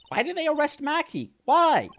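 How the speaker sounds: high, wailing demand; distraught protest. Acted. Protesting the arrest, distraught and high.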